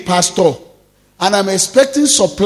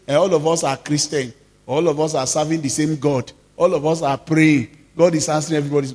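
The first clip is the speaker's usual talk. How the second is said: a lower, hushed mimic of a smug believer; mock complacent churchgoer; 4 semitones lower than usual. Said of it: "So don't say".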